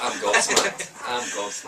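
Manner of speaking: high, loud, through laughter; laughing. Real, not acted. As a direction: say it while cracking up. Laughing at host's joke.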